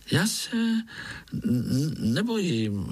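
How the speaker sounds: high, stammering, scared little spider; thin little voice. Acted. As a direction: stutter out the brave denial. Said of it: "řekl Pája tenkým hláskem".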